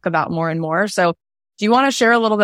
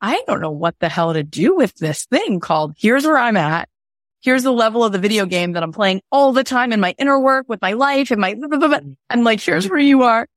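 rising exasperation; 5 semitones higher than usual. Retold or imitated. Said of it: "So I was like".

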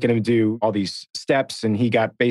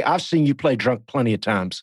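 Buddy Garrity impression. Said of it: "It was nearly spot on".

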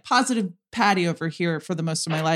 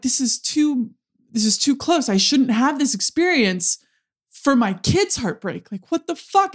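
frustrated outburst; 3 semitones higher than usual. Retold or imitated. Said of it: "I'm so fucking mad".

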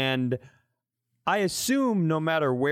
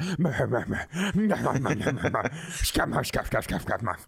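long wheezing stuttering laugh; weird laugh. Real, not acted. Cracking up at the joke about his own odd laugh. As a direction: cackle breathlessly, strange rhythm. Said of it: "Hay Bales laughed really weird".

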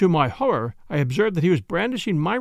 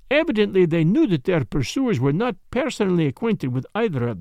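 put-on lightly accented detective, explaining with relish; Poirot; 2 semitones higher than usual. Detective explaining the case to his friend, lightly voiced lecture. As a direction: lay out the reasoning, question by question.

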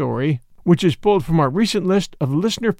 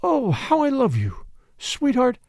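tender murmur; 7 semitones higher than usual. Acted. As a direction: breathe it close to his ear. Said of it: "murmured in his ear".

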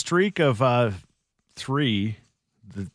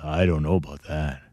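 impression of a deep-voiced singer; 7 semitones lower than usual. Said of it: "Sexy voice".

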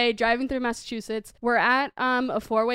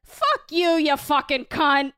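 Boston comeback; slower than usual. Retold or imitated. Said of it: "a woman with a Boston accent".

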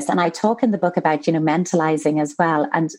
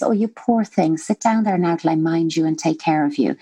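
lightly voiced nurturing parent. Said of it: "a nurturing parent voice".

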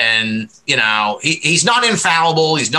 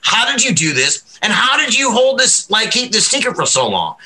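excited; 6 semitones higher than usual. Pretend. Imagined gushing to Travis.

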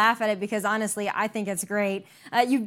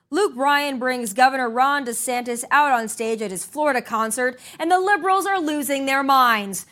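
news read; 3 semitones higher than usual. Acted. Host teases next segment.

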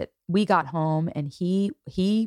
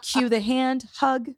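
higher, laughing stage directions; 7 semitones higher than usual. Acted. Mother scripting a hug for her family, laughing. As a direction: giggle through the list of cues.

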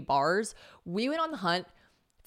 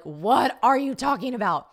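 mock-incredulous, pitched up and loud; baffled followers; 6 semitones higher, 7 dB louder than usual. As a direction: play the followers demanding an explanation. Voicing followers' baffled reaction.

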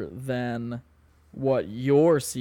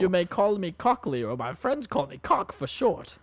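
Professor Dicklecunt; 5 semitones higher than usual. Acted. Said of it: "I'm introducing myself".

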